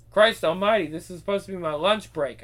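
exasperated outburst. Acted. Guard exasperated at break interrupted.

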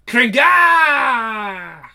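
drawn-out crashing "Kringa" yelled with a strained timbre; mock glass smash effect; glass-breaking sound. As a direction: shout "Kringa" as shattering glass. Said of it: "that was supposed to be Kringa".

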